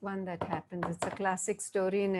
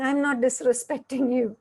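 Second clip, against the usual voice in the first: louder, re-enacted wifely denial; indignant protest; 3 semitones higher, 6 dB louder than usual. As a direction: act out a wife defending herself. Wife protests in acted quarrel.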